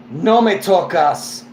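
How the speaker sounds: slow, firm Spanish warning; stern warning. Retold or imitated. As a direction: lay down the line slowly. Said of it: "in that tone".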